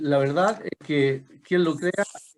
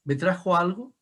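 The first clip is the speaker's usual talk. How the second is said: higher-pitched, re-enacted questioning; retold question to pupils; 5 semitones higher than usual. Teacher recalling a question put to Mapuche-speaking pupils, high questioning voice. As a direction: ask it lightly in a raised pitch. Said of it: "una pregunta que le decía".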